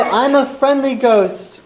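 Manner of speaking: a hint of a kindly ghost giving a tip; friendly ghost. Friendly ghost telling the girls where Masongo is, lightly voiced. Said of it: "The ghost said".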